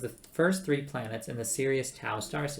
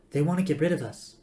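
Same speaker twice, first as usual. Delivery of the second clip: mildly anxious, raised pitch; nervous; 4 semitones higher, 4 dB louder than usual. A narrator's reading. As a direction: say it with worried unease. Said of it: "said Trillian nervously".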